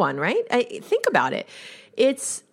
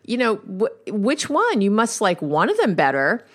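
retold frustration; 4 semitones higher than usual. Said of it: "really frustrated and annoyed".

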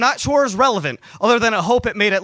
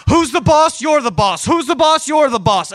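high, loud hype-up chant; self pep talk; 7 semitones higher, 5 dB louder than usual. Acted. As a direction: pump yourself up like a coach. Pumps himself up to hold on.

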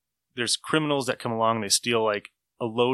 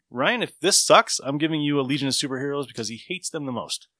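mock threat; 2 semitones higher than usual. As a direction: tease Ryan with a hammed-up threat. Threatening a friend over a book.

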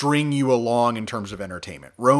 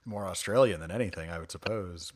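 whisper; 5 semitones lower, 9 dB quieter than usual. Real, not acted. Aside remark whispered.

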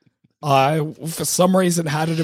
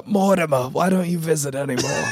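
put-on old man voice. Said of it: "This is what I sound like as an old man".

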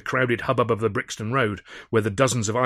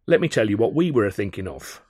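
nasty drawl; 4 dB louder than usual. Acted. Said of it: "Malden drawled nastily".

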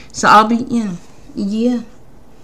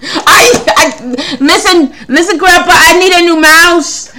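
higher, louder whiny grandchild asking grandpa; childlike plea; 8 semitones higher, 5 dB louder than usual. Pretend. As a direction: beg grandpa like a needy kid. Pleading to grandpa like a kid.

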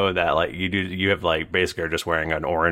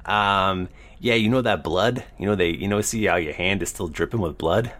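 lightly voiced weaselly cellmate; a hint of a sly lizard prisoner; feral wasteland raider; 3 semitones higher than usual. Dragonborn cellmate talks.

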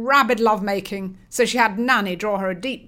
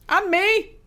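1 glum; 11 semitones higher, 5 dB louder than usual. Acted. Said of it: "remarked Dre glumly".

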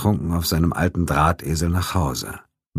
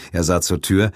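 ordinary delivery, nothing marked

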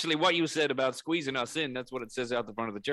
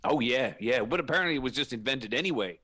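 put-on Southern preacher accent; 3 dB louder than usual. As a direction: lay on a homely Southern American preacher accent. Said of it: "people take me more seriously when I talk like this".

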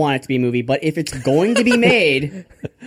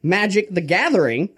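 higher-pitched mock sermon, building to the payoff; Father Grandfather; 5 semitones higher than usual. Preacher extolling his saviour as a game card, hammed-up fervour. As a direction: proclaim game rules like holy powers. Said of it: "motivational speech on the Lord Baby Jesus by Father Grandfather".

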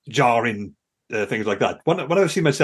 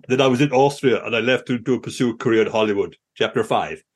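lightly imitated American narrator; generic American reading aloud; American audiobook reader; 2 semitones lower than usual. Mimicking a stand-in audiobook reader, generic American accent. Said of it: "some random generic American guy reading it".

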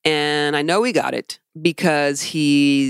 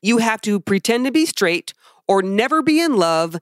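higher-pitched, emphatic venting; infuriated rant; 5 semitones higher than usual. Real, not acted. Podcaster venting about church rules to co-host, infuriated. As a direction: vent real frustration, leaning on key words. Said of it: "'cause it's infuriating".

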